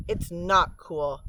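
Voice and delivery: slow, pointed correction, stress on not; said sharply. Acted. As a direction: cut her off, firm on not. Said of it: "Ry said sharply".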